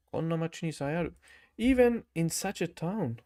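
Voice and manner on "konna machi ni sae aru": "Konna machi ni sae aru" rattled off fast; fast repeat. Shown as a demonstration. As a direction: rush through "Konna machi ni sae aru" in one quick breath. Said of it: "repeats sentence for practice".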